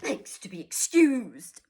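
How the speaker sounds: bitter sarcasm with a laugh; mock the tie with biting sarcasm; sarcastic father ranting about his tie; dangerously sarcastic. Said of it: "He became dangerously sarcastic".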